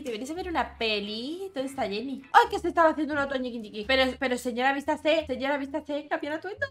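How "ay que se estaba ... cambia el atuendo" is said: mock scandalized. Scandalized at naked Sim.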